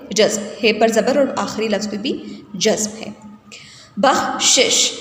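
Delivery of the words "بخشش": بخشش split as "bakh-shish", a stop after kh; careful vowel marks. Shown as a demonstration. Teacher models the word for students, بخشش as "bakh-shish". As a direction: say بخشش in two clear parts, "bakh" then "shish". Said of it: "ایک شین کے نیچے زیر".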